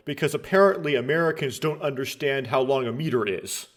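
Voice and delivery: mildly sarcastic aside; feigned belief, lightly sarcastic. Real, not acted. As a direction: say it with a touch of sarcasm. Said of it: "I'm being sarcastic here".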